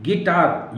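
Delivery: गिटार said gi-taar with no u; silent u. Shown as a demonstration. Teacher showing गिटार with no u. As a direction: say गिटार with a plain g. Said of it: "यू नहीं पढ़ेंगे".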